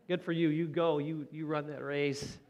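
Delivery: mock cheer under his breath for his wife; cheering to himself. Man on the sideline cheering his running wife, mildly upbeat. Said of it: "I was saying it to myself".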